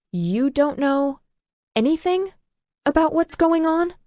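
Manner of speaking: pleading, near tears; tearful disbelief. A narrator's reading. She wipes her eyes, disbelieving.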